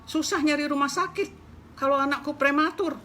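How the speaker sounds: high, loud scolding hen; angry hen scolding. Acted. Hen scolding the mouse for startling her, loud and high. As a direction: rant at the mouse like an outraged mother hen. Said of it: "kata si ayam marah-marah".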